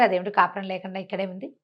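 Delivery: usual speaking voice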